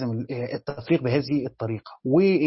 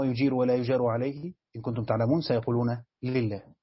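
measured chanted recitation, falling on each answer; calm Quranic reading; 2 semitones lower than usual. Shown as a demonstration. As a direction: recite the verses in a steady tajwid cadence. Teacher recites three verses.

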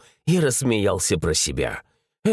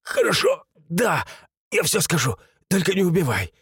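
high, pleading voice of a scared raider; frightened giving in; 6 semitones higher than usual. A narrator's reading. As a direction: cave in and beg not to be killed, higher. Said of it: "заскрипел зубами налётчик".

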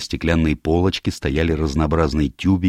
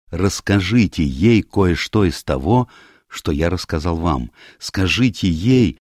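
mildly urgent, slightly raised plea; earnest Hugh pleading; 3 semitones higher than usual. Acted. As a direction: beg it gravely, leaning on the key words.

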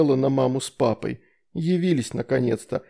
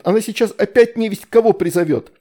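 1 plaintive plea; 7 semitones higher, 5 dB louder than usual. A narrator's reading. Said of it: "жалобно попросила Астрид".

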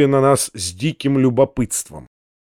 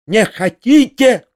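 higher, slow, choking with rage; furious shriek; 6 semitones higher, 3 dB louder, slower than usual. A narrator's reading. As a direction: shriek it in disbelief. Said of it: "взвизгнула Анфиса Петровна". (визг, задыхаясь от злости)

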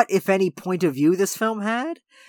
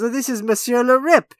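imitated presentation of an honored guest, higher pitched; waiter's introduction; 6 semitones higher, 3 dB louder than usual. Waiter introducing a famous regular to the new man, mock formal. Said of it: "I love that he goes".

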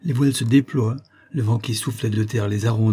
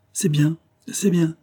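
slow, higher-pitched approval; approving; 7 semitones higher, slower than usual. A narrator's reading. Captain hears out Elim's account, slowly approving. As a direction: draw out each approving phrase.

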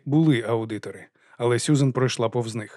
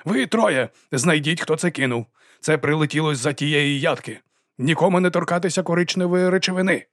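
shouted orders; 4 semitones higher, 3 dB louder than usual. Acted.

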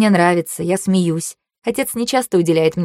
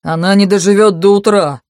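shout; 2 semitones higher, 5 dB louder than usual. Acted. Shout in torture chamber.

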